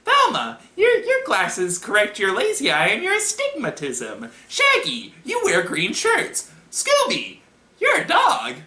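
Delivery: very high, squeaky nerd voice; loud, squeaky roll call; Steve Urkel. Acted. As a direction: rattle off facts as an annoying know-it-all. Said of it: "this squeaky, annoying voice".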